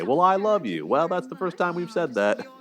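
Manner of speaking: high-pitched mock lovers' yell; mock shouting. Commentator imitating the sitcom couple's fight, mock shouting. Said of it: "they're both shouting at each other".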